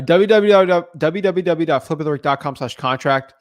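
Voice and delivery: w w w dot flip with the rick dot com slash contract read out slowly, letter by letter; slow spelled-out address. Shown as a demonstration. Host slowly repeats the contract link for viewers, careful and clear. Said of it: "reads the web address twice".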